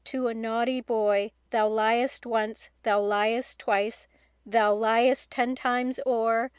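slow, measured verse recital; a boy solemnly reciting lines found in a book; reciting a poem. Acted. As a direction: lean into each line like a solemn rhyme. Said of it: "I'm going to repeat some lines".

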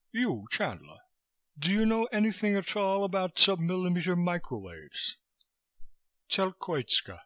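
high-pitched, brusque foreign interrogator; wheezy fat man, abrupt; Koitska, brusque. A narrator's reading. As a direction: question him in a high wheezy voice. Fat Koitska questions Chandler.

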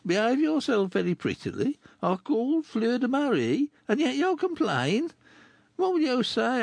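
a lightly voiced rough man; rough Chourineur. Chourineur teases the girl, lightly voiced rough man. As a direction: tease her like a rough friend.

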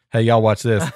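a hint of a mock redneck, said almost plainly; redneck last words. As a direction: lightly toss off the redneck's famous last words. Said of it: "Like Redneck's famous last words".

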